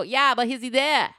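mock half-shout, brushing off the explanation; low-level shouty. Caller refuses the wrong-number excuse, low-level shouty. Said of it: "low-level shouty".

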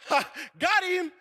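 high, drawn-out triumphant crowing; mock gloating. Husband celebrates scaring his wife, playful gloating. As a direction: crow over a successful prank.

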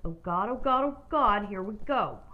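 mock panicky muttered prayer, building; retelling a scared "oh God" moment; retold nervous dread. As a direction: play up the mounting dread a little. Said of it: "I'm scared shitless".

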